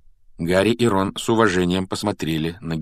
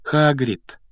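put-on high, dismayed girlish wail; tragic voice; 8 semitones higher, 4 dB louder than usual. A narrator's reading. Hermione warns about the wooden house, tragic. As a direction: warn him with tragic dismay. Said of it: "трагическим голосом произнесла она".

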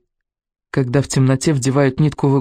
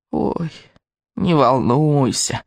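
cackling witch; much slower than usual. A narrator's reading. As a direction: cackle it unpleasantly. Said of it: "прокудахтал голос".

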